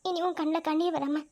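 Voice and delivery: soft, low, soothing voice; tender comforting. Acted. Partner comforting a crying loved one, tender. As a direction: reassure them gently and quietly.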